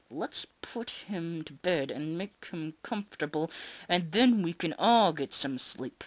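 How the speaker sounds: slow, forced-calm mother; through clenched teeth. Acted. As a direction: push it out through gritted teeth. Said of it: "through clenched teeth".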